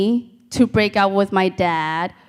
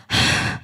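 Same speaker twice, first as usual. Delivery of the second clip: crying sob; 4 dB quieter than usual. Retold or imitated. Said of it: "I'm like".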